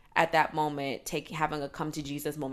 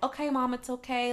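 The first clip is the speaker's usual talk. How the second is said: higher-pitched, placating tone; reassuring; 7 semitones higher than usual. Acted. Grown child calming an overwhelmed mom by phone, reassuring. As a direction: soothe her as if on the phone.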